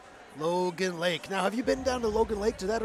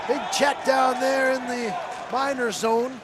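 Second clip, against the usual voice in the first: excited call; 4 semitones higher, slower than usual. Real, not acted. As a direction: belt out the big hit. Play-by-play excitement.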